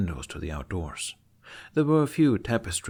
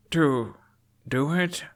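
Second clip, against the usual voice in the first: Hiccup's protest; 6 semitones higher, slower than usual. Acted. Hiccup interrupting father's scolding.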